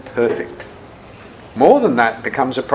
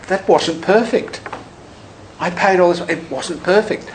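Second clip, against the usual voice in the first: mock whiny complaint; 7 semitones higher than usual. Teacher mimics the rich lady's petty grievance, high and whiny. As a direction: draw out "perfect" like a spoiled complainer. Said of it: "this woman with all this money going".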